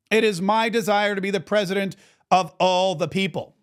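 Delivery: statement read aloud. Acted. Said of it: "wrote about it on his Truth Social".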